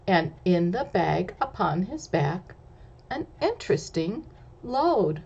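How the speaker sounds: sing-song read-aloud rhyme; lively picture-book narration; story narration. A narrator's reading. Reads rhyming story text aloud.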